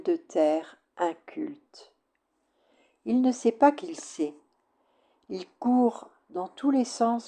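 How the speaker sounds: measured poetry reading, pauses between lines; poem recitation. Acted. Poet reading her poem L'alchimie to listeners, measured recitation. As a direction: recite it line by line, letting each phrase settle.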